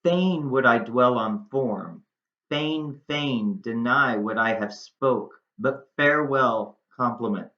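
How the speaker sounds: unhurried recital of Juliet's lines; monologue read-aloud. Acted. Rereads monologue lines slowly.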